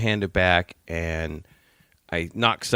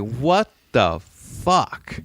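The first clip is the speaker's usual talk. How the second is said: baffled; 4 semitones higher, much slower than usual. Retold or imitated. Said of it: "I was like".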